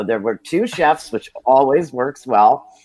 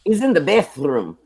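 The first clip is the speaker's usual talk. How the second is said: higher, Brooklyn-Italian broken English; imitating the receptionist; 9 semitones higher than usual. Receptionist telling a caller he is away, Brooklyn-Italian accent. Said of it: "then I heard her say once".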